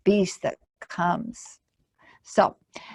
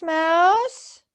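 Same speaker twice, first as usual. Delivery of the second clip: high, slow, guilty monster confession; sheepish monster voice; 6 semitones higher, 7 dB louder, much slower than usual. Acted. Monster tells Mouse he forgot the food, slow and sheepish. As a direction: confess it slowly like a big sorry monster.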